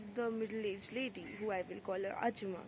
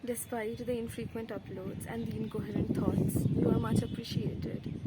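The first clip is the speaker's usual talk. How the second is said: loud, raised voice against outdoor wind; shouting over wind; 7 dB louder than usual. Real, not acted. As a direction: project loudly over a gusty wind. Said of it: "I hope you can hear me over the wind".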